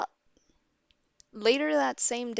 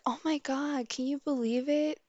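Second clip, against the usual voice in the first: higher, mock-amazed gossip; imitating excited friend; 5 semitones higher than usual. Friend sharing news of the culprit, imitated amazement. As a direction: share the scandal as the friend would.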